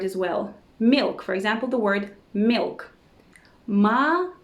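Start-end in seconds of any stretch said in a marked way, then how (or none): 3.7-4.3 Молоко said "ma-la-KO"; reduced unstressed vowels. Shown as a demonstration. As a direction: say Молоко with the first two o's as "a". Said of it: "We say it like this".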